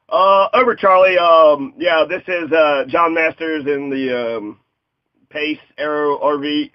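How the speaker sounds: a hint of radio-operator chatter; lightly played trucker on the radio; mock CB radio. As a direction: talk as into a CB handset. Pretend CB radio talk.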